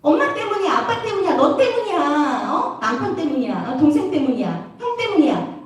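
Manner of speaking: mock finger-pointing, each item a falling complaint; lightly acted accusatory grumble; blaming others. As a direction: run through a whiny list of culprits. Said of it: "불평불만하고 그 사람한테 비난하면".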